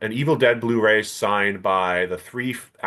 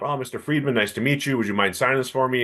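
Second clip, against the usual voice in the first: put-on polite young fan; 4 semitones higher than usual. Young fan politely asking for autograph.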